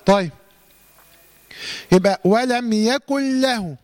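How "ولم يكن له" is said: slow chant, "يكن له" as "yakul-lahu" with no hum; idgham without ghunna. Shown as a demonstration. Teacher showing how it is done, chanting "يكن له" with no nasal hold. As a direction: merge "يكن" cleanly into a doubled lam. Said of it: "طبعًا بدون إيه؟".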